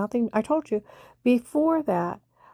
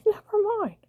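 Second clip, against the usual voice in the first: coy brush-off; 10 semitones higher than usual. Retold or imitated. Friend cutting off the gossip.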